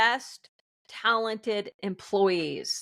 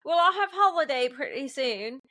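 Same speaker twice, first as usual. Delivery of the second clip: light mock British accent; a hint of a British accent, mimicked; mimicking a British boss; 3 semitones higher than usual. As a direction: slip into the UK boss's way of talking. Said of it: "I do have a very bad habit of mimicking people".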